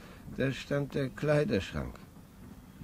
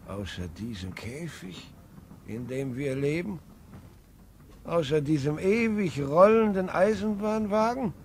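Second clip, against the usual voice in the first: heated; 3 semitones higher, 4 dB louder than usual. Acted. Grandfather argues with his son, loud and impassioned. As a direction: rail against the cage they live in.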